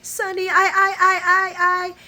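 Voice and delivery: high, broken stammering as if about to cry; mild imitated crying stammer; tearful stammer. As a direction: choke on the words, near tears. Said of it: "tears start to coming down her face".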